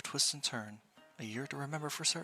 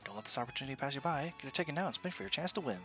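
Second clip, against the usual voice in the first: booming prize announcer; 2 semitones higher than usual. Acted. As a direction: hawk the raffle to passersby. Raffle booth barker pitch.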